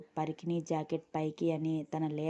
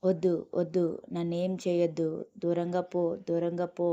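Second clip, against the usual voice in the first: louder, desperate begging; terrified girl pleads, louder; frightened pleading; 4 dB louder than usual. Acted. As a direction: beg him to keep away, panicked. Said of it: "వేడుకుంటూ".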